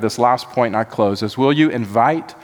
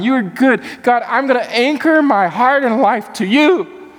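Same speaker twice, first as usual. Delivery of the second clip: much higher, fervent preaching cry; impassioned psalmist; 8 semitones higher than usual. Retold or imitated. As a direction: psalmist crying out his trust at full force. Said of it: "And he's going".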